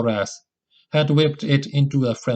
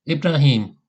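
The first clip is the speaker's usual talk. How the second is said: calling out; 4 semitones higher, 3 dB louder than usual. A narrator's reading. Calling lost companion again.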